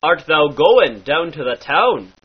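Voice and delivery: "town" with an oh-like ow; Scottish-like ow. Shown as a demonstration. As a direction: repeat with the near-Scottish ow. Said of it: "an almost Scottish sound".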